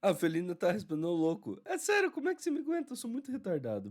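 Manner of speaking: high, loud giddy outburst; excited. Real, not acted. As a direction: burst out giddy at yourself. Laughing self-mockery to co-host.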